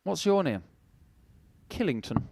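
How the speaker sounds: plummy upper-class put-on; lightly voiced aristocrat; posh voice. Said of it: "would sound really good in a posh voice".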